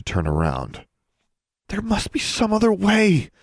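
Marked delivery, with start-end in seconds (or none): 1.7-3.3 put-on high, louder young girl insisting. A narrator's reading. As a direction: press the point in a high girl's voice. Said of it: "Darla insisted".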